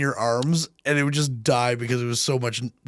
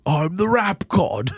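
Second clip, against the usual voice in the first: mock boast; 3 semitones higher, much slower than usual.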